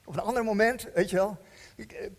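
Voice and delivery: lightly voiced lazy excuses; mock excuse-maker. A believer putting Jesus off with excuses, lightly mocking. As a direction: make excuses with a shrug. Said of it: "Dan kun je erover hebben later".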